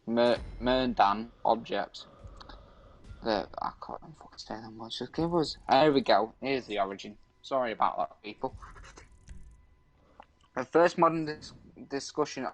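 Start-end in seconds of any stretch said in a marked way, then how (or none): 0.0-2.0 halting read-aloud from an article. Acted. Streamer reads an urban legend to a friend, reading aloud. 10.5-12.5 halting read-aloud from an article. Acted. Streamer reads an urban legend to a friend, reading aloud.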